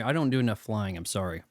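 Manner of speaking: munching popcorn. Real, not acted. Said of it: "this popcorn is so good".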